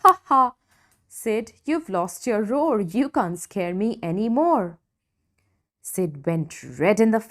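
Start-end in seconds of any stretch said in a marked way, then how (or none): 0.0-4.8 teasing Ross. Acted. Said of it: "Ross laughed".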